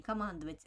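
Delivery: командовать stressed on МАН, light ending; unstressed suffix. Shown as a demonstration. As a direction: keep the -овать of командовать unaccented. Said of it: "an unstressed, uh, suffix over without accent".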